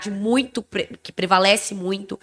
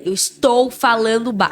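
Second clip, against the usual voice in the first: mock indignant retort, slightly raised; retold loud protest; 3 semitones higher, 4 dB louder than usual. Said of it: "eu falei".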